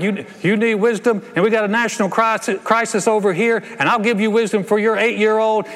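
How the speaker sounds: easygoing God. Retold or imitated. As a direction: rattle off solutions effortlessly. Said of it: "And he's like".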